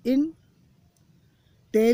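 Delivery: इंटेलिजेंट drawn out very slowly, syllable by syllable; slow syllable demo. Shown as a demonstration. Teacher to students, showing syllables: इंटेलिजेंट very slowly stretched. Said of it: "एक से अधिक syllable है guys".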